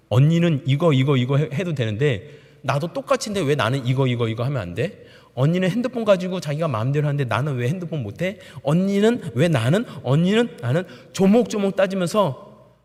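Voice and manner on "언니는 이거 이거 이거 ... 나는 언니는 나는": put-on child's indignant complaint. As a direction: press each point like an aggrieved child. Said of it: "논리적으로 저한테 따다다닥 따지는".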